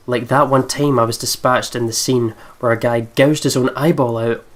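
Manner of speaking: steady reading of the game text; measured voice-over reading; story narration. Acted. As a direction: read it out like the narrator.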